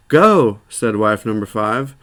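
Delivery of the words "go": stern order. A narrator's reading. Wife orders husband out.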